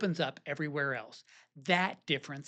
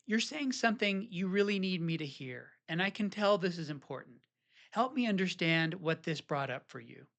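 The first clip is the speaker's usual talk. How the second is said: soft reassuring. Shown as a demonstration.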